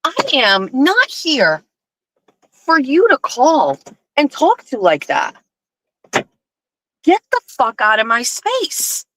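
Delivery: slow, emphatic telling-off; retold scolding, slowly and firmly spaced out; retold indignation. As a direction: lay down the law word by word. Retold angry phone quarrel.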